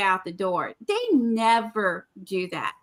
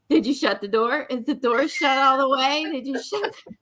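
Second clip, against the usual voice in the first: mock nagging; 4 semitones higher than usual. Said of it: "I'm gonna be like".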